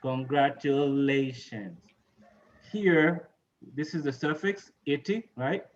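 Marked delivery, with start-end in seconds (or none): 0.0-1.8 Congratulations with the weight on "la"; congratuLAtions, clearly stressed. Shown as a demonstration. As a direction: model Congratulations, stressing the syllable before the ending. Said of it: "Stress the syllable right before".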